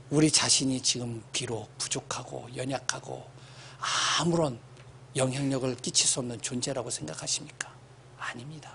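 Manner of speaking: soft near-whisper sermon; hushed preaching. Acted. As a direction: draw them in with a hush.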